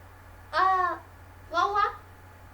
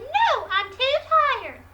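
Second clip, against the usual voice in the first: mock tired whine; 2 semitones higher, 4 dB louder, much slower than usual. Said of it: "But she said".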